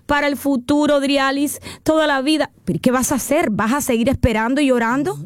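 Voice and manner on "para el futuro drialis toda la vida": mock whining. Host imitating a broke listener whining to her, mock complaint. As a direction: imitate a client moaning over spent money. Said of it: "no nos podemos quedar llorando".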